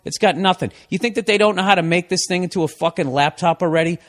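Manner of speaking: real ranting at a borrowed iPad; temper tantrum. Real, not acted. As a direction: rant at the gadget in a huff. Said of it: "as I'm throwing a temper tantrum here".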